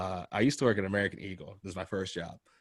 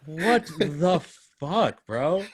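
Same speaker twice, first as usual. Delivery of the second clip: mock outrage; 6 semitones higher, 4 dB louder, much slower than usual. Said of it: "I'm like".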